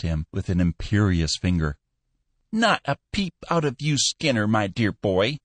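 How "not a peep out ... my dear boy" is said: put-on high, chirpy and friendly old man; amiable chirp. Old boss cheerfully hushing his manager, high chirp. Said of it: "he chirped amiably".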